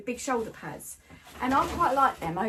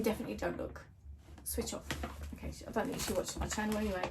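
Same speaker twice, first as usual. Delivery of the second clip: softer, hushed, almost secretive; 7 dB quieter, faster than usual. Real, not acted. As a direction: drop your voice so her daughter won't hear. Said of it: "I don't know why I'm whispering".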